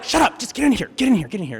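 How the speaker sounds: high start, hurried order; urgent hushing. Retold or imitated. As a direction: hustle someone in secretly. Siblings urgently pull him inside.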